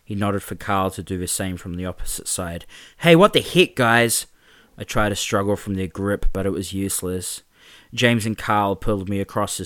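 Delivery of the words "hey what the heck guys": loud, much higher yelp of protest; startled protest. Acted. Mark seized by James and Carl, loud startled protest. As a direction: caught off guard, pull away. Mark grabbed by both bullies.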